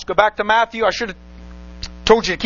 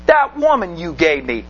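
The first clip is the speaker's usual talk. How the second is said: Adam's sulky excuse; 5 semitones lower than usual. Retold or imitated. Preacher voicing Adam blaming God, low and muttered. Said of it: "Adam might be blaming God".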